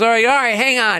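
put-on high, loud drunken voice; calm the comic down drunkenly; hammed-up drunk; mock drunk.

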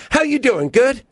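high bright chirpy greeting; mock small talk. Mimicking a stranger's cheery greeting. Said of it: "when people go".

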